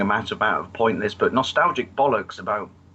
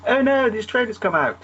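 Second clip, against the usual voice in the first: mock panic; 10 semitones higher than usual. Voicing marketing staff panic.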